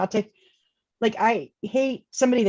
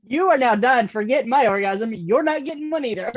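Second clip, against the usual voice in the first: raised, emphatic telling-off; mock outrage; 3 semitones higher than usual. Cutting off the lover who mentioned an ex, mock outrage. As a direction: lay down the law, playfully indignant.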